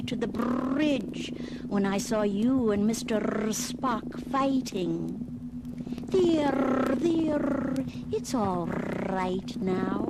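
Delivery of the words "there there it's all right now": calm the scared creature down; soothing. Acted. Soothing the calmed animal.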